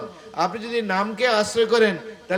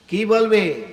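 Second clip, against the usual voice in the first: কি বলবে thrown out louder, falling; emphatic louder repeat; 6 dB louder, slower than usual. Shown as a demonstration. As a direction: hit বলবে hard the second time. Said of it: "তখন লোকেরা এসে কি বলবে?". (জোর দিয়ে আবার প্রশ্ন)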